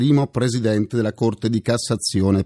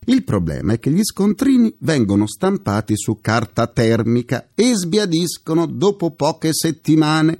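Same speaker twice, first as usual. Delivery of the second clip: normal talking voice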